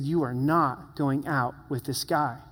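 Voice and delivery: slow, measured retelling of a father's refusal; understated, deliberate insistence, each word weighed; tearful firm order. Retold or imitated. Father holding his daughter down, slow understated tearful firmness. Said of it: "with tears running down his face and said".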